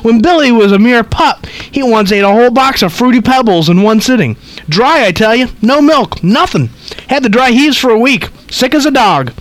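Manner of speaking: put-on high, chattering old lady; gossipy old woman rattling on. Reads old lady's lines.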